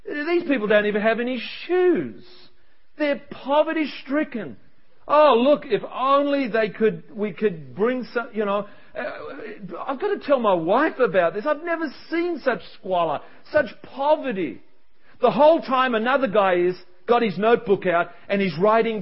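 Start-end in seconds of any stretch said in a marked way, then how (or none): 0.0-4.6 mock lament with rising swoops; whining. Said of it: "His mate was just whining". 5.1-14.6 pitying, hammed-up lament; whining. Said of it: "His mate was just whining".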